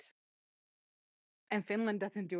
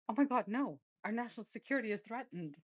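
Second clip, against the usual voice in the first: higher, fast, hammed-up mock alarm; mock panic; 4 semitones higher, faster than usual. Mocking the Russian reaction to German troops with hammed-up alarm. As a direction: play a Kremlin official in fake panic. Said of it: "they're like".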